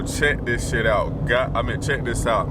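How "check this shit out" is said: slow drawn-out. Real, not acted. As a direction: stretch each word out slowly. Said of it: "I'm trying not to cuss no more".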